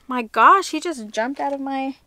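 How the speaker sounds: sudden loud gasp of surprise as the pet leaps away; startled. Real, not acted. Startled outburst as her pet jumps out of her arms. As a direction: caught off guard, blurting it out.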